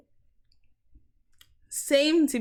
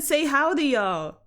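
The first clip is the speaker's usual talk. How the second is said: attempted American accent; 4 semitones higher, 4 dB louder, slower than usual. Shown as a demonstration. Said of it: "try to do an American accent".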